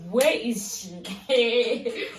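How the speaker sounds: drawn-out, panicky mock wail; retold panic. Retelling the search for a missing drunk friend, panicking. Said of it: "I was panicking".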